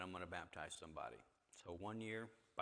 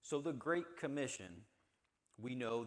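loud; 5 semitones higher, 10 dB louder than usual. Real, not acted. Pastor opens scripture point loudly.

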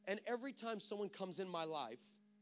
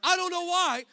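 self-mocking disbelief; 11 semitones higher, 13 dB louder than usual. Real, not acted. Laughing at himself, retelling.

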